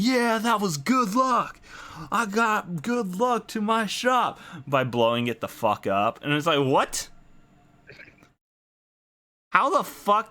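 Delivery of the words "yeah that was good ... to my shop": high, shouted mock cheer of a delighted shopkeeper. Shopkeeper cheering the tanks that wrecked his shop, high gleeful shout. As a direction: play a shopkeeper thrilled that his shop got blown up. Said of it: "happy and cheering them on and saying".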